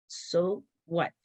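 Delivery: two spaced, unhurried words; imitating a mentor's brush-off; dismissive so-what. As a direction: shrug it off, slowly. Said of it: "That's how she said".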